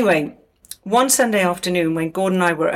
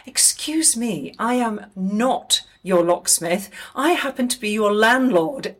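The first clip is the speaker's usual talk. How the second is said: slow, a touch of offended dignity; indignant Gordon; 3 semitones higher than usual. Retold or imitated. Gordon telling Noel he's the landlord, mildly indignant. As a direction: correct him coolly, word by word. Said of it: "Gordon looks at him and says".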